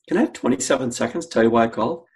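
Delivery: quick, lilting question that goes up twice; playful, curious. Shown as a demonstration. Cold caller asking for a moment, playful and curious. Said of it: "what we call a playful, curious voice".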